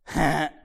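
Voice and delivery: short mock baby laugh; imitated toddler chuckle. Toddler bouncing up every time, imitated chuckle. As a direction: pop out a quick toddler "heh".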